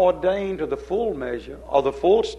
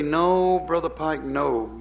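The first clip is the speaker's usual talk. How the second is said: lightly voiced protest, raised at the start; mock objection from a church member, easing down; a hint of a protesting listener; imagined objector; 2 semitones higher, slower than usual. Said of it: "somebody would say".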